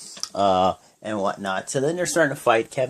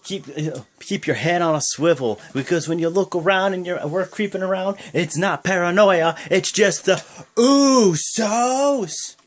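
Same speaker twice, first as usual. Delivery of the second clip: higher, louder hype promo, last words very slow and stretched; Usos catchphrase; 8 semitones higher, 3 dB louder than usual. Retold or imitated. Fan reciting the tag team's catchphrase, drawn out and hyped. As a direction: drag out the catchphrase like a tag team. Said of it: "their little saying, they say".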